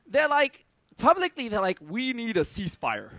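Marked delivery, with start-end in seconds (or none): 1.8-3.1 light mock American politician accent; a hint of an American official, lower and softer. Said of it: "Is that a good American accent?".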